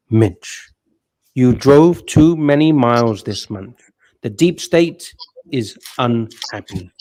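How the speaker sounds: slowed, ominous system voice; dystopian announcer. Pretend. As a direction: intone like a cold surveillance AI. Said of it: "I'll try and do it in a dystopian voice".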